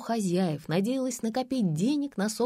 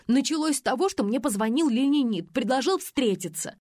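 higher and louder, rushing to confess; agitated outburst; 6 semitones higher, 3 dB louder than usual. A narrator's reading. Faina, cornered, loudly blurts out her confession to the investigators. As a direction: blurt it out defensively.

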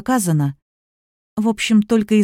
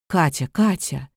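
lower, slow and calming; soothing; 4 semitones lower, 4 dB quieter than usual. Acted. Father calming his daughter, soothing and slow. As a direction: settle her down gently. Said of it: "умиротворяющий голос Сергея".

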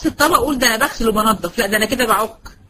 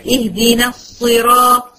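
slow Quran recitation, stretching الصراط; measured chanted recitation; 4 dB louder, much slower than usual. Shown as a demonstration. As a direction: recite slowly with tajweed. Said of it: "يلا تذكري معايا".

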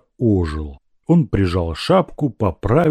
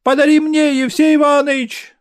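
put-on much higher, louder boy's cry; shout from crowd; 5 dB louder than usual. Proshka shouting from the crowd, begging for the cards. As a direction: yell it out from the back of the crowd. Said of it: "закричал из толпы Прошка".

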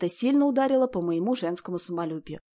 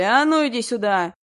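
рёв; 3 semitones higher, 7 dB louder than usual. A narrator's reading. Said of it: "ревели в купе и зазывали".

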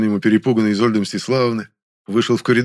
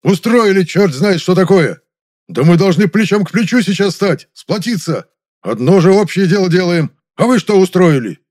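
much higher, louder furious scolding; raging tirade; 9 semitones higher, 7 dB louder than usual. A narrator's reading. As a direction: rage at them all. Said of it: "Большаков продолжил бушевать".

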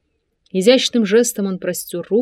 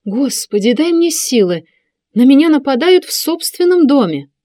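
higher, louder wailing complaint; mother wailing that she is attacked, higher and louder; anguished outcry; 7 semitones higher, 6 dB louder than usual. A narrator's reading. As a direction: cry out to heaven, wronged. Mother cries out, feeling attacked.

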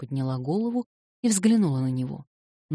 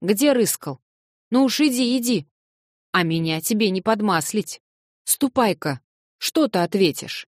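put-on a higher-pitched, louder old servant scolding the young man; grumbling old servant; 5 semitones higher, 4 dB louder than usual. Old servant scolds late visitor Alyosha, voiced higher and louder. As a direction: play the gruff old housekeeper chiding him.

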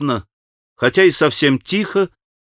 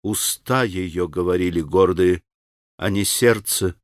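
lower, softer, with revulsion; disgusted; 6 semitones lower, 4 dB quieter than usual. A narrator's reading. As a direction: say it as if it tastes foul. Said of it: "с каким-то омерзением".

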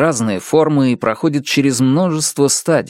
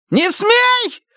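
much higher cracking scream; shrieking shout. A narrator's reading. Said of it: "закричал он, срываясь на визг". (крик, срывающийся на визг)

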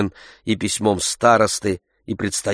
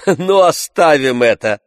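louder, higher interruption; Oblomov cutting in; 6 semitones higher, 6 dB louder than usual. A narrator's reading. Oblomov interrupting Tarantyev, firm loud cut-off. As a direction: cut him off firmly. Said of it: "прервал его Илья Ильич".

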